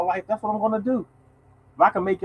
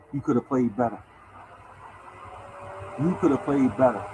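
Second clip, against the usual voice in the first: father's put-down; 4 semitones lower, 5 dB quieter than usual. Retold or imitated. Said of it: "guess what he told me?".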